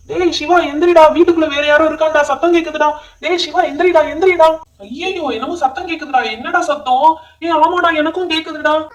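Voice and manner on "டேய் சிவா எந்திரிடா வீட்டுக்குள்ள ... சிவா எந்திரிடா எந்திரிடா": urgent scared wake-up call. Acted. Wakes Siva, hears intruder.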